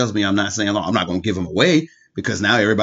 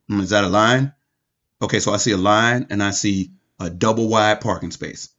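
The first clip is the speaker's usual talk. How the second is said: low, softly muttered pondering; oblivious bad parker; 5 semitones lower, 4 dB quieter than usual. Careless driver working out where to park, low and musing. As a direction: think it through aloud, low and quiet. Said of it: "people who will literally see that".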